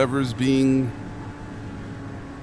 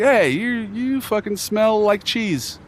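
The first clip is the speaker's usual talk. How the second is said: mock bro insult; 8 semitones higher, much slower than usual. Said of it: "you kinda like".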